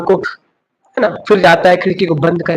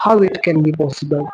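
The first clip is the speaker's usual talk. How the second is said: slow emphasis; 5 semitones lower, 5 dB quieter, much slower than usual. Real, not acted.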